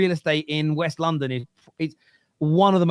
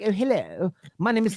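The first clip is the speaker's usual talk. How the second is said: put-on very posh West London accent; 4 semitones higher than usual. Showing how an actor talks in real life, unlike his character, imitating a very posh West London man. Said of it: "a very posh man from West London".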